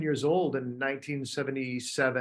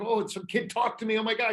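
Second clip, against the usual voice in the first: put-on startled little boy; 8 semitones higher than usual. Child startled by another kid.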